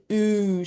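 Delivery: "oo" as in food; long, slow "oo" vowel; double-O sound. Shown as a demonstration. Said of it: "same sound as a double O".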